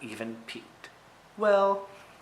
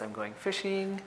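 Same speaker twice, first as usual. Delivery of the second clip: put-on child voice; 7 semitones higher, 4 dB quieter than usual. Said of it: "So here he says".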